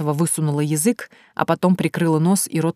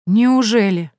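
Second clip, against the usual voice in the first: snide; 5 semitones higher, 5 dB louder, slower than usual. Acted. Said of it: "Варвара ехидно усмехнулась".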